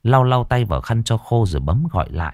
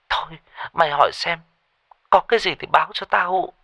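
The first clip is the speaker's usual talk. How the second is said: higher, hurried worried pleading; anxious friend; 7 semitones higher, faster than usual. A narrator's reading. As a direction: rush to ask your friend for help. (giọng lo lắng, nói vội)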